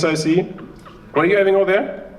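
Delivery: ordinary talk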